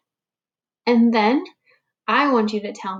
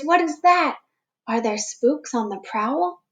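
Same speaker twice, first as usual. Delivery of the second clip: nervous mutter; 4 semitones higher than usual. Acted. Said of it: "Bear mutters".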